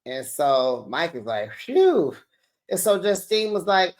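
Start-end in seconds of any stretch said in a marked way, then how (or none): 1.5-2.1 high, puffed-out "phew"; mock exhale of relief or dismay. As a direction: let out an imitated overwhelmed phew. Retelling Mike's reaction to costs.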